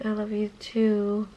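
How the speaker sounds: drawn-out, softened 'love you too'; sweet reply. Retold or imitated. Sister answering her brother's I love you, sweet and drawn out.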